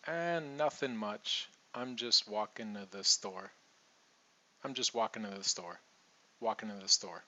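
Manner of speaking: "walking to" blended into "walkin' a", relaxed; casual reduced reply. Shown as a demonstration. Teacher repeating a casual phone reply, reduced to. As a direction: say it easy, like answering a friend. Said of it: "So I'll repeat that".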